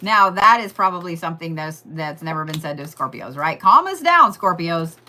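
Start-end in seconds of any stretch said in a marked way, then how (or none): 3.6-5.0 pleading call. Real, not acted. Pleading to Scorpios.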